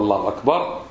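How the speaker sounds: الله أكبر low, both A vowels short, no waw; short first vowel and short "bar" in أكبر; correct takbir. Shown as a demonstration. Teacher summing up the required form, correct takbir. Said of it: "إذن هذه لابد أن تقول".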